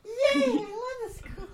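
high, slow sarcastic cheer. Acted. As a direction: fake cheer dripping with sarcasm. Sarcasm about school.

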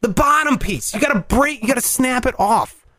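retold exasperated instructions; acted exasperation. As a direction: coach a clueless man, losing patience.

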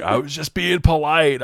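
high, laughing mock excuse; defensive friend. Friend defending himself to the narrator, high mock excuse. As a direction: plead innocence in a put-on voice.

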